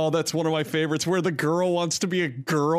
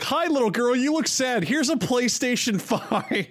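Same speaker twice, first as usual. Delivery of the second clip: sweet influencer voice; 7 semitones higher than usual. Retold or imitated. Voicing Sniper Wolf.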